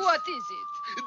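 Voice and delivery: shouting. Acted. Explosion looming, shouted.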